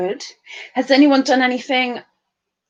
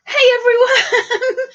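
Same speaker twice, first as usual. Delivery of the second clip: voicing Jennifer; 10 semitones higher, 3 dB louder, slower than usual. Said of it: "Jennifer says".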